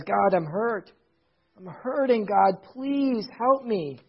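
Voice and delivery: soft, mildly plaintive plea; pleading little child. Retold or imitated. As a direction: lightly imitate a hurt child begging for help. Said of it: "just like a little child who says".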